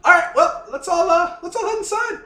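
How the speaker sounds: high squeaky Australian character voice; high-pitched voice. Acted. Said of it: "It's high pitched, isn't it?".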